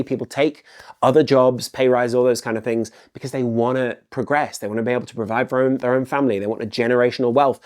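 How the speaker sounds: ordinary delivery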